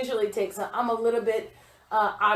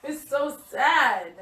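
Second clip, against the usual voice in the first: out of breath; 2 semitones higher than usual. Real, not acted. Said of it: "Let's breathe for a second".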